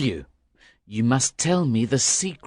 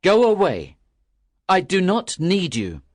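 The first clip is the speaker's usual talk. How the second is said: louder dismissive shout; crying out; 4 dB louder than usual. A narrator's reading. Fisherman shouting his soul away. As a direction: send it away with force. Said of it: "cried the young fisherman".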